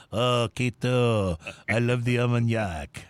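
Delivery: slow, hammed-up fake French accent; a bumbling French inspector's botched French accent; Inspector Clouseau accent. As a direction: drag out a bad French accent, half laughing. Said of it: "That didn't even sound like Clouseau".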